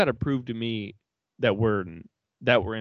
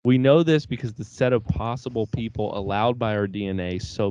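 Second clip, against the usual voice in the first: reading a poem. Acted. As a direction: read it like a recital. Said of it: "Can I read you a poem?".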